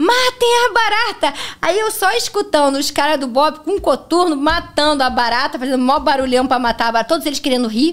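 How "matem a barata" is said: put-on very high, frightened shouting yell. Retelling shouting an order from behind a closed door: retelling a shout. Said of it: "bati a porta e gritei assim".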